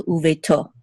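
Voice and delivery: uveto with the accent on its last syllable, to; stress on the final syllable. Shown as a demonstration. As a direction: land on the "to" in uveto. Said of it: "the accent is on to".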